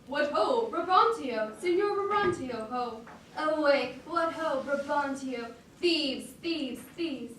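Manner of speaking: calling out up to the house in alarm; a fearful, urgent cry of "thieves"; dire yell. Acted. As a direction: Roderigo raising the alarm outside Brabantio's house with a yell. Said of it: "with light timorous accent and dire yell".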